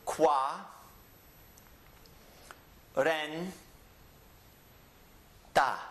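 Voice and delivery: Qua, ren, ta split with long pauses; syllable by syllable. Shown as a demonstration. Teacher dividing cuarenta into syllables for students. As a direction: break the word into slow separate beats. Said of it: "The syllables are divided".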